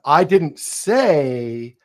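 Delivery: slow, leaning on say; stress on say. Shown as a demonstration. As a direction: say drawn out slowly. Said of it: "emphasize a different word".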